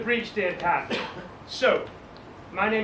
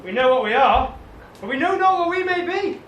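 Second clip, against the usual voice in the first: Shakespearean declaiming; 3 semitones higher, 4 dB louder than usual. Acted.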